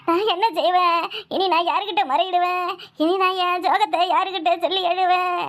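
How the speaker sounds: a sing-song Tamil lament, wailing and pleading over the body; mock funeral wailing. Daughter-in-law wailing over her dead father-in-law's body, hammed-up lament. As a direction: wail it like a village oppari for the dead, half-hammed.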